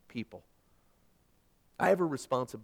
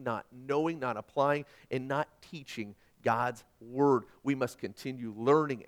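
ordinary delivery

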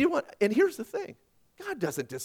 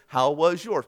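stilted, louder line-reading; scripted recital; 6 dB louder, slower than usual. Acted. Spouse sticking to the script, stilted. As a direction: say it word by word off a script. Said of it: "Stick to the script".

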